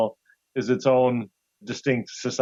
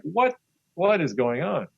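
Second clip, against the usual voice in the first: retold bafflement; 4 semitones higher, slower than usual. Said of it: "you're like".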